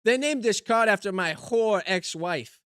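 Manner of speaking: lightly voiced put-upon comedian; old-school joke delivery with catchphrase; put-on stand-up comic. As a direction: play a hammy one-liner comic. Delivers one-liners as joke comedian persona.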